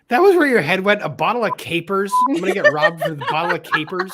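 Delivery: incredulous. Real, not acted. Incredulous at friend's capers idea.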